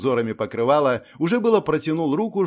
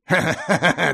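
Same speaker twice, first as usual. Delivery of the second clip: a short jeering laugh; lordling's derisive chuckle; mocking laugh; 3 semitones higher, 3 dB louder than usual. A narrator's reading. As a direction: laugh at her scornfully. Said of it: "издевательски засмеялся".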